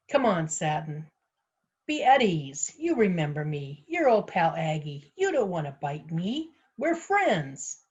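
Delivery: coaxing a dog with lilting swoops; friendly, wheedling singsong. Acted. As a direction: sweet-talk a wary animal.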